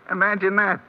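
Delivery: a chuckle leading the words; laughing. Acted. Bookie scoffs at the bettor to Templar, laughing. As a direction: laugh at how dumb the deal is. Sam mocking the foolish bettor.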